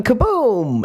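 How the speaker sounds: high, drawn-out kaboom; excited kaboom. Acted. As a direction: land the boom big. Story climax.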